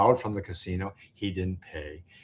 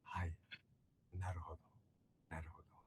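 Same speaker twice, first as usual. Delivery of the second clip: polite aizuchi fading; 4 semitones lower, 20 dB quieter, faster than usual. Shown as a demonstration. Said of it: "You just go".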